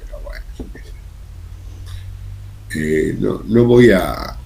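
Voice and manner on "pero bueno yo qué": whisper. Real, not acted. Muttered aside, not opining.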